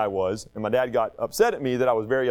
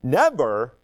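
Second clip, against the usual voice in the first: measured lines with pauses between; poem recitation; 3 semitones higher, slower than usual. Acted. Pastor reciting a forgiveness poem for kids, measured recitation. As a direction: recite it slowly, line by line.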